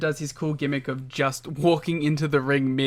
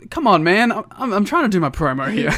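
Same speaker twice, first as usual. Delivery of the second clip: sad Raven; 5 semitones higher, 8 dB louder than usual. Retold or imitated. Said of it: "He's like".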